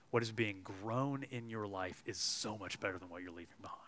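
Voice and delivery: soft unvoiced hopeful whisper. Real, not acted. Preacher assures the listeners, hopeful whisper. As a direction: breathe the promise to them.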